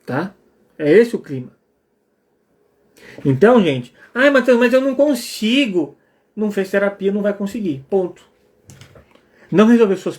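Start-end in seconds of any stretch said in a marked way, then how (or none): 4.1-6.0 whiny listener. Retold or imitated.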